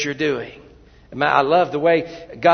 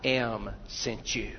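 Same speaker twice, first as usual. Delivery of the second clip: solemn voice of God; 4 semitones lower, 3 dB quieter than usual. Acted. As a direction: speak as God, calm and certain. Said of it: "God says".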